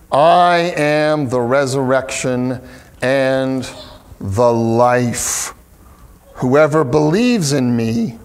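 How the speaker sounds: slow, solemn reading of the verse; scripture reading. Acted. Pastor reading Jesus' words to the congregation, slow and solemn. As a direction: read it slow and weighty.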